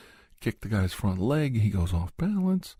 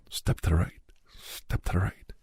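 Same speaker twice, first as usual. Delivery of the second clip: whispered cue; 2 semitones lower than usual. Shown as a demonstration. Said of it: "All right, ready?".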